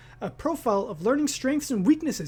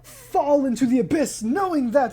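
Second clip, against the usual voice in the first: slow, overblown movie trailer voice; dramatic narrator voice; 4 semitones higher, 4 dB louder than usual. Pretend. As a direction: intone it like a doom-laden epic narrator. Jokey epic narration about himself.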